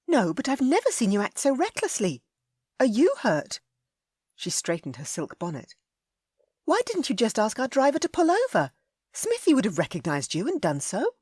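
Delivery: put-on high, worried young lady scolding; a lady upset at his recklessness; Ellie, scolding. A narrator's reading.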